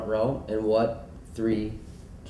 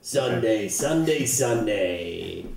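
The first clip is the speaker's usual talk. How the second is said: booming monster truck ad voice; much slower than usual. Pretend. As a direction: hype it like a monster truck rally ad. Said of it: "I'm gonna do, like, a monster truck voice".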